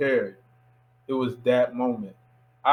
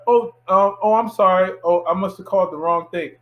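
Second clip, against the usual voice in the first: higher, louder imitation of an apologetic caller; mock flustered wrong-number apology; 4 semitones higher, 4 dB louder than usual. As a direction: imitate her hurried, flustered backing off. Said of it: "Just like that".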